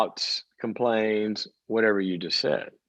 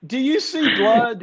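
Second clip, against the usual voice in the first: sarcastic; 11 semitones higher, 3 dB louder, slower than usual. Real, not acted. Sarcastic mock concern.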